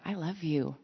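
intimate tender. Acted. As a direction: speak gently, close and personal. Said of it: "very intimately and said".

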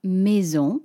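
maison said the French way, nasal final vowel. Shown as a demonstration. Teacher modelling maison for learners. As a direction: say maison as a French speaker would. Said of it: "M A I S".

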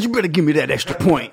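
laughing while playing the daughter. Real, not acted. Friend jokes about the daughter while laughing. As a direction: chuckle out the mock threat.

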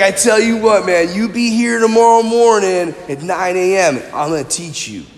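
a hint of a mellow snowboarder bro; easy, laid-back dude delivery; surfer-dude talk. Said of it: "why they talk like that".

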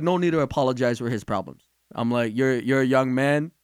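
low, soft and calm; retold reassurance. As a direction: reassure a young man quietly.

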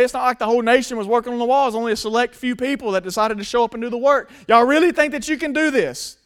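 mock them to plant doubt; taunting. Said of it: "he's screaming and he's taunting".

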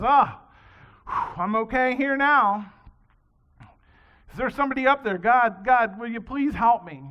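loud, relieved then calling upward; a man dangling from a branch, calling loudly to God. Acted. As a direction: shout up from the cliff for help. Man hanging from cliff calls out.

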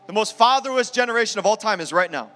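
fervent pulpit declaration, rising and falling; preaching declaration. Acted. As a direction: proclaim it over the men with conviction. Pastor declaring blessing over men.

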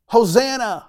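high ringing shout of "Hosanna!"; crowd cry. Retold or imitated. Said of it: "they're screaming out".

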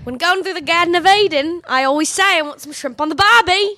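hammed-up Australian accent. Carol shows off to the actors, Australian accent. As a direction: put on a stock Australian accent. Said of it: "can you do an Australian accent".

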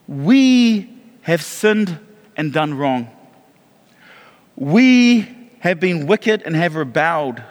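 slow, weighty confession read aloud; earnest prayer reading. Acted. Pastor reading Daniel's confession prayer to the congregation, slow and solemn. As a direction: let each line of the confession land slowly.

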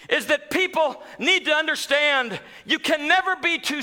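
high, ringing sermon voice; rising pulpit fervor; impassioned preaching. Acted. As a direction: preach it up to the rafters. Preaching climax.

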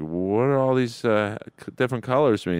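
movie-scene quote. Retold or imitated. Retelling a film scene to the group, lightly acted puzzled question. Acting Al Pacino's movie line.

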